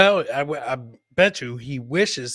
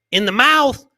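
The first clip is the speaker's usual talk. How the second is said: loud punch; 9 semitones higher, 9 dB louder than usual. Real, not acted. Punchline burst.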